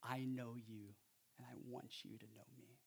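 a light, hushed hint of Jesus inviting; preacher softly voicing Jesus's invitation; tender Jesus voice.

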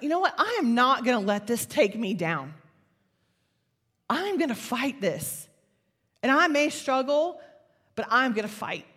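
retold fighting resolve, emphatic; mad, defiant. Woman vowing to fight her anxiety, mad and defiant. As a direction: declare it with stubborn determination. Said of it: "and I got mad".

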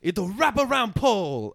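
high-pitched mock vaguely Asian accent; hammed-up vaguely Asian accent. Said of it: "I do this vaguely Asian accent".

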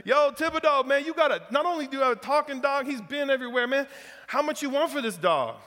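put-on a thrilled Cajun shouting across the yard in a Southern Louisiana accent; excited Southern Louisiana accent. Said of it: "I'm gonna try this Southern Louisiana accent".

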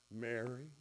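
Jesus quietly calling Mary by name; tender whisper of a name. Acted. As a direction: say her name softly so she knows you. Jesus says her name.

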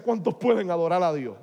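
loud, booming preacher call to the crowd; imitating a TV preacher. Retelling the Puerto Rican preacher his parents watched, loud preacher call. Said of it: "ponía el puño así y decía".

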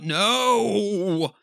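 high, loud anguished no; scream. Acted. Husband seeing his deformed son, screaming no. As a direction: cry out in horror. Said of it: "he screams out".

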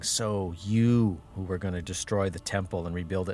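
lightly acted taunt, building then easing. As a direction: challenge him like a mocking passer-by. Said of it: "they're taunting him".

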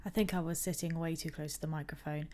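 quick whisper. Real, not acted. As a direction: whisper it fast. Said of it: "talking rather quietly under my breath".

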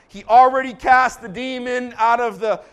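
breathless rapid-fire list; preacher's relentless run-through. Real, not acted. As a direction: rattle off the list with driving energy. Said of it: "Rapid fire now".

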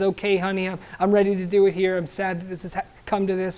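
softly, mildly tearful wife; a touch of tears, quiet and resigned. Retold or imitated. Wife answers her dying husband, mildly tearful and quiet. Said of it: "And she's in tears".

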